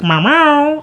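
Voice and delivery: a mock cat meow, lightly voiced; imitating the cat's nagging meows. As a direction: meow back like a whiny cat. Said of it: "And she's like".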